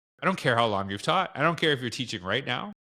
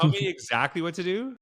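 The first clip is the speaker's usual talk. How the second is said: mock demanding teacher; 6 semitones higher than usual. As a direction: play the teacher insisting on being told what to do. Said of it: "It's like".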